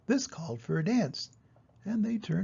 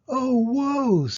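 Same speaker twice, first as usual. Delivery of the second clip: lament; 9 semitones higher, 4 dB louder than usual. Acted. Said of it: "said the mouse".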